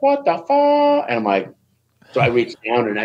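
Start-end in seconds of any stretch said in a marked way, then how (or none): 0.0-1.1 high, drawn-out shocked "What the fuck?"; shocked outburst. Retold or imitated. Joe Warren seeing the dislocated wrist, a high stunned cry. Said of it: "Joe Warren's like".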